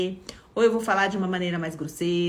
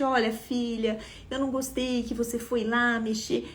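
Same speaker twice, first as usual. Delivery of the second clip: softer, gentle version of the same reproach; 2 semitones higher, 4 dB quieter than usual. Shown as a demonstration. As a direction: say it kindly, quieter. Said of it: "mesmo que eu falasse gentilmente". (falando com gentileza, mais baixo)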